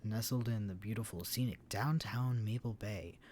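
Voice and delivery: loud, salesy real-estate pitch; cheesy announcer voice. Acted. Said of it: "do the best cheesiest, cheesiest announcer voice".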